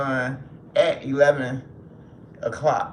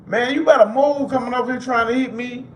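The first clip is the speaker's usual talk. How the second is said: higher, louder warning; scolding the cat; 9 semitones higher, 6 dB louder than usual. Real, not acted. Warning his cat off, raised voice. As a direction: snap at the cat to back off.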